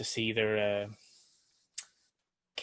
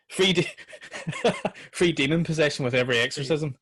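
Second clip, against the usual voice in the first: quoting the ad; 4 semitones higher than usual. Retold or imitated. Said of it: "he's like".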